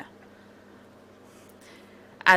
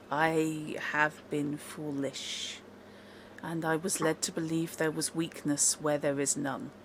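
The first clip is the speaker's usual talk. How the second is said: contrite elf; 2 semitones lower, 8 dB quieter than usual. Acted. NPC elf concedes to party.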